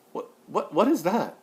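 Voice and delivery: exasperated, high and loud challenge; incredulous outburst. Real, not acted. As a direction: throw the question out in loud, high-pitched disbelief. Indignant rhetorical question in rant.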